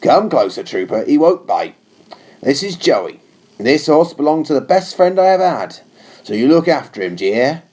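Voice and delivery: lightly voiced captain, firm but unsympathetic; a hint of a stern officer giving orders; captain to a new trooper, firm and cool. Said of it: "His tone was firm but unsympathetic".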